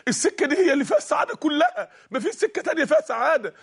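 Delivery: shouting voice. Acted. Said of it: "الصوت بيصرخ في وداني الاتنين".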